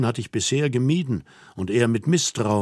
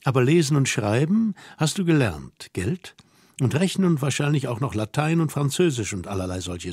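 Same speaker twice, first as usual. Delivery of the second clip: lightly voiced scolding young woman. Girl scolds man who cannot dance, mock-stern and incredulous. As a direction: take him to task in a lightly raised girl's voice.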